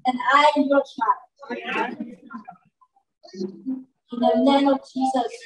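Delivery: put-on slow, earnest children's prayer, line by line. Shown as a demonstration. Leading the children in prayer, slow and heartfelt. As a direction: pray it slowly so the kids can echo each line. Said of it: "you are going to repeat after me".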